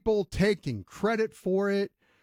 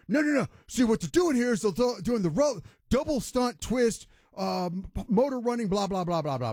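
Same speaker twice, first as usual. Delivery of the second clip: higher, slowing on the jargon, rattling it off; mock know-it-all analyst; 4 semitones higher than usual. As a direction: parody a guy hiding behind coach jargon. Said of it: "intimidate you by having football verbiage".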